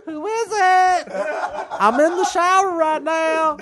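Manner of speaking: high, slow redneck holler; redneck God. Acted. Redneck God calls from the shower, high drawl. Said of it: "It's some redneck".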